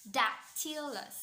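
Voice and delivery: "dactylus" as DAC, short pause, then tylus; dactyl stress pattern. Shown as a demonstration. Lecturer repeating the example, "dactylus" with DAC set apart. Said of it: "itself has stress pattern of dactyl".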